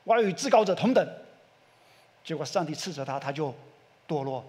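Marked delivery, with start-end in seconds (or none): 0.1-1.1 Satan boasting. Retold or imitated. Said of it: "他说".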